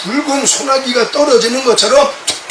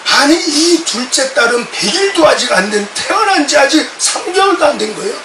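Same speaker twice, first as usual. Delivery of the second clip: outraged disbelief at the poisoning plan; retold indignant scolding. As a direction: pastor rebuking parents for planning to poison their baby. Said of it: "제가 막 화가 나가지고".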